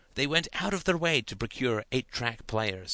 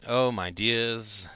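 sad; much slower than usual. Acted. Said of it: "shaking his head sadly".

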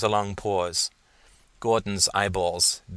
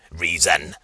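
low growling inner voice; guttural growl; 4 semitones lower, 4 dB louder than usual. Acted. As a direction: growl it right into his ear. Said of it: "The guttural voice growled in his ear".

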